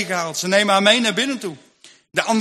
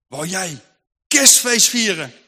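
stern rebuke; slower than usual. Acted. Conscience rebukes him.

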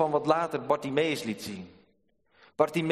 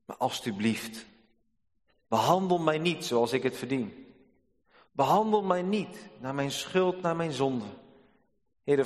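heartfelt prayer. Acted. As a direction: pray it as a humble plea. Preacher voices a prayer.

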